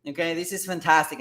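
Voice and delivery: lifted, punchy enthusiasm; mildly excited, emphatic delivery; a little excited. Real, not acted. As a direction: get a bit carried away by great news. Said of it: "I get a little bit excited".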